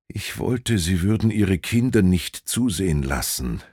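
lightly voiced old prince murmuring; a hint of a weary old man. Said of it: "murmelte der greise Prinz".

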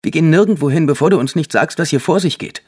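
mother confronting the cousin, loud and fierce; fierce demand. A narrator's reading. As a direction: refuse to move until he talks.

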